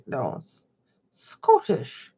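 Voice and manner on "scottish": poor try at a Scottish accent, rounded vowel; attempted Scottish accent. Shown as a demonstration. Streamer testing a Scottish accent for chat, attempted Scottish accent. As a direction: fumble the word in a Scottish accent. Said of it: "I can't do a Scottish accent".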